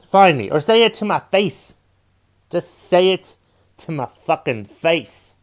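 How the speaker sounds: put-on slipping into a light Southern accent while daring listeners. Podcaster daring critics to confront him, in a light Southern accent. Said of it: "Why am I talking with a southern accent?".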